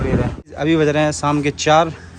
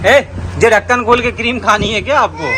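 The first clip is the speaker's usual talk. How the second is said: scolding call; 5 semitones higher, 3 dB louder than usual. Real, not acted. Scolding toddler opening cream.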